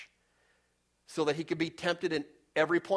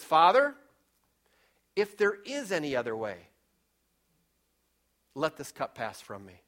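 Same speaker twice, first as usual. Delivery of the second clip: pleading prayer. Retold or imitated. Jesus praying in Gethsemane.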